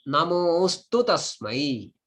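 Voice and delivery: "Namostu" with a long held o for the hidden a. Shown as a demonstration. Teacher showing where a hides, lengthened vowel in "Namostu". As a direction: lengthen the "mo" of "Namostu", joined to "tasmai". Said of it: "A is there hidden".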